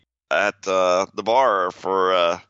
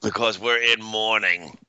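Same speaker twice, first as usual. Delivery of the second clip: put-on Australian accent; 3 semitones higher than usual. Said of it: "Why are you talking like that?".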